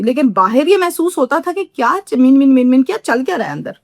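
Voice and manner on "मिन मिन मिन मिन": imitated murmuring. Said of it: "आहिस्ता बातें करती थी".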